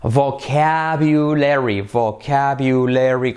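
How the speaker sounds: "vocabulary" very slow, every syllable drawn out; five-syllable VOCABULARY. Shown as a demonstration. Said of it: "como cinco sílabas". ("vocabulary" lento, en cinco sílabas)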